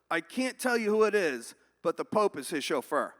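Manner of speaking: loud, deliberate punchline delivery; emphatic cop. Acted. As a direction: declare it firmly, pitch falling.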